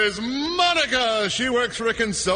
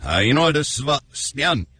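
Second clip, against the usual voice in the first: reversed song clip; a rock song run backwards; backwards speech; 6 semitones lower than usual. Shown as a demonstration. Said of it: "Here's the song".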